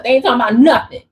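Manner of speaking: rattled off fast, words tumbling; rushed fast. Shown as a demonstration. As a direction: say it as fast as you can. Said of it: "I can't even say it fast enough".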